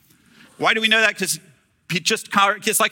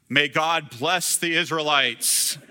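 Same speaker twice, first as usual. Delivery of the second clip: mock solemn blessing; slower than usual. Balaam blesses instead of cursing.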